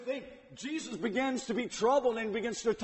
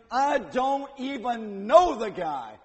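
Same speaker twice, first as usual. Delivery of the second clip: swearing; 2 semitones higher, 5 dB louder, slower than usual. Retold or imitated. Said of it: "he begins cursing and swearing".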